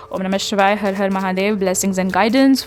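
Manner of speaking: low, even prayer chant; invoking Shiva over the cards; prayer invocation. Real, not acted. Murmured invocation before drawing cards.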